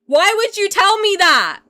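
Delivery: high, loud cry of protest; outraged. Real, not acted. Streamer to viewer rubbing it in, outraged. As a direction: cry out at the person who broke the news.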